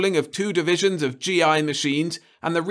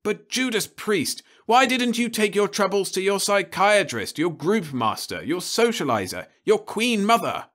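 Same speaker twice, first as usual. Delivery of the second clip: higher and louder, booming rebuke; thundering; 6 semitones higher, 5 dB louder than usual. Acted. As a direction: thunder at the boy. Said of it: "Crumbine thundered on".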